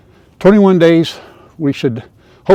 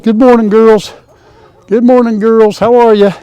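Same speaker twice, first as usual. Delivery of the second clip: a touch higher, sweet hen-greeting voice; cooing at hens; 5 semitones higher, 4 dB louder than usual. Real, not acted.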